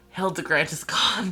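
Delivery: close-up, secretive half-whisper right at the ear. Narrator voices a man leaning close to half-whisper in a player's ear, half-whispering. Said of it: "He he whispers in your ear".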